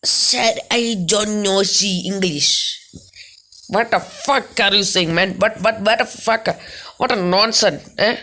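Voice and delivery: very slow, dragged-out broken English; put-on clerk voice. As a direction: stretch every word like an irritated foreign clerk. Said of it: "എന്തേ ശബ്ദം ഇടയ്ക്കിടയ്ക്ക് മാറ്റി".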